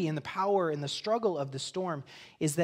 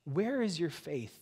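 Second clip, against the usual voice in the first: slow, unforced question, inviting rather than scolding; gentle invitation; slower than usual. Shown as a demonstration. Jesus inviting his disciples to respond with trust, gently. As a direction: ask it slowly as an open invitation. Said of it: "but as an invitation".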